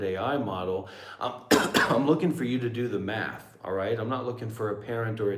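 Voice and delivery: real exasperated telling-off; angry. Real, not acted. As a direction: put it in its place, fed up. Berating the AI assistant.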